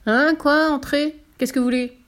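loud, high, interrupted boss; sudden high "what?"; startled director. Acted. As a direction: answer as if rudely disturbed. Startled gruff director answers.

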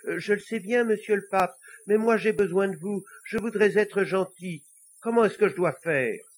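high-pitched, insistent little devil; pleading little devil. Acted. Little devil begging the Pope for help, high and pleading. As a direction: plead earnestly in a small high voice.

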